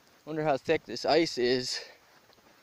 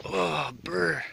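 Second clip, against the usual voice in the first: shivering brr; 2 semitones higher than usual. Real, not acted. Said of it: "I'm so cold right now".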